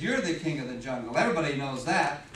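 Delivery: low-voiced, mildly submissive reply; submissive giraffe. Giraffe answering the boastful lion, low and submissive. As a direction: give in, pitched well down.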